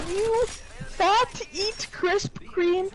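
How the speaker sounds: drawn-out mock insult; super mean. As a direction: mimic his mean message slowly, word by word. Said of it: "being, like, super mean".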